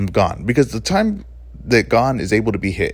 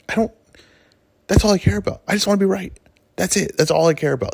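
emphatic; 9 semitones higher than usual. Real, not acted. Emphatic self-confession.

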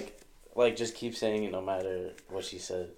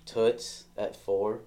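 greaser tough guy; much slower than usual. Shown as a demonstration. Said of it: "I can pull that off".

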